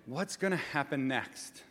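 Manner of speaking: soft, slow, anxious question; quiet worried take, slowed. Shown as a demonstration. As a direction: ask it like your power just got cut. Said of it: "if you're saying it".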